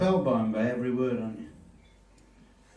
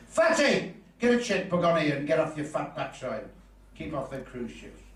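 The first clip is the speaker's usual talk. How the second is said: rude customer; 3 semitones higher than usual. Retold or imitated. Rude customer insults bank clerk.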